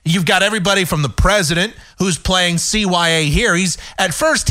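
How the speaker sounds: usual speaking voice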